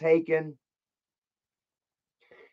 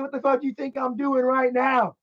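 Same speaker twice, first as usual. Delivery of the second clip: retold angry taunts; 6 semitones higher than usual. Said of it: "I said".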